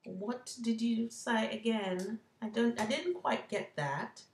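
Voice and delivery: imitating Siri with a light British Australian accent; a slow, light British Australian take on Siri. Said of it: "She has kind of a British Australian accent".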